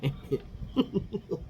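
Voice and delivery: soft airless giggle breaking out; breathless laugh. Real, not acted. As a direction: laugh under the breath, can't hold it. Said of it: "just like I was laughing".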